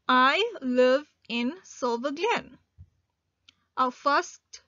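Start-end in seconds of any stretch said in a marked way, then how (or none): 0.1-2.6 slow, careful read; slow dictation read. Shown as a demonstration. Teacher reading an example to learners, slow. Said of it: "Our next example is".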